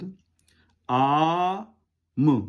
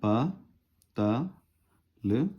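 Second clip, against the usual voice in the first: syllable by syllable; slower than usual. Shown as a demonstration. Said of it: "पतल लिखना होगा तो".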